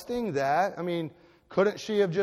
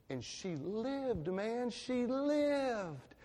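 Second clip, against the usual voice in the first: hushed awe; 6 semitones higher, 7 dB quieter, much slower than usual. Real, not acted. Quiet emphatic close.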